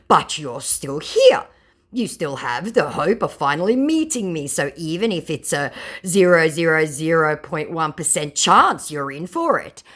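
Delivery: slightly hammed-up scammer pleading a case; scammer quote. Scammer answering the sceptical target, lightly acted. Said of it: "my scammer responded with".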